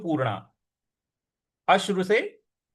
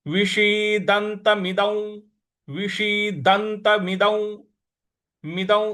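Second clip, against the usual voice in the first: विषीदंतमिदौ drawn out syllable by syllable; slow recitation; 3 semitones higher, much slower than usual. Shown as a demonstration. Teacher models the word slowly for students. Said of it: "द के ऊपर जो अनुस्वार है".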